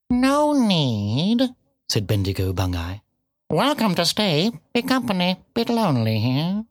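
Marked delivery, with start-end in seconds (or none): 0.1-1.5 high, drawn-out cat voice; bitten-off words. A narrator's reading. Cat curtly questioning the piglet, words bitten off. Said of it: "seemed to bite off its words and spit". 3.5-6.6 higher-pitched, terse cat voice; bitten-off words. A narrator's reading. Cat tersely answering the piglet, words bitten off. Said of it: "seemed to bite off its words and spit".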